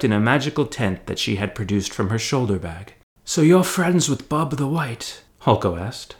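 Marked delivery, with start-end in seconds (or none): 3.2-5.2 higher, slow, curious voice; curious hobbit. A narrator's reading. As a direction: ask it slowly, wide-eyed. Hulko voiced asking.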